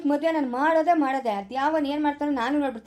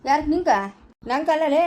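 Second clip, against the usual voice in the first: loud scornful retort; 4 dB louder than usual. Acted. Mocking retort in quarrel.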